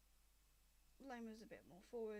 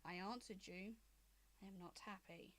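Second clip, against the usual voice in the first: lightly voiced angry dragon mother; 2 semitones lower than usual.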